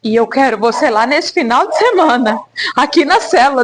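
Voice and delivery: low, calm voice of God speaking to her. Retold or imitated. A voz de Deus, grave e calma. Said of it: "falou assim".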